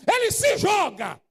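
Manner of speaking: slow, loud, high shout; preacher shouting the leper's fall; preached shout. Acted. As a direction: throw the words out like a fall.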